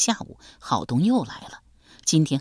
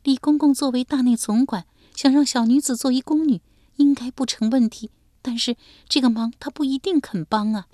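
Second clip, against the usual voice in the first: sobbing; 9 semitones higher than usual. Acted. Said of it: "她抽泣着说道".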